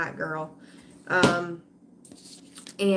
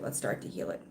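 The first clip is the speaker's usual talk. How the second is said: low soft repeat; 12 semitones lower, 7 dB quieter, faster than usual. Real, not acted. Repeating her plea to viewers, low and soft. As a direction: lower and softer, voiced. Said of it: "walking around with trust issues".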